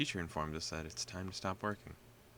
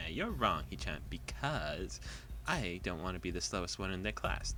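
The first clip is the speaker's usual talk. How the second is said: bubbly schoolgirl, pitched up; Misha voice; 2 semitones higher than usual. Acted. Voices Misha in visual novel.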